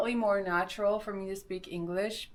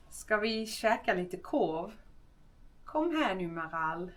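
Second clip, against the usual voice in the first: lightly put-on Skåne accent; a half-hearted try at Skåne accent; 3 dB quieter than usual. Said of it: "My, my Skånska is so bad".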